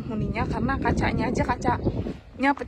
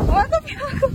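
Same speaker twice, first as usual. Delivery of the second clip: shouting over wind; 14 semitones higher than usual. Real, not acted. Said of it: "tergelut dengan angin".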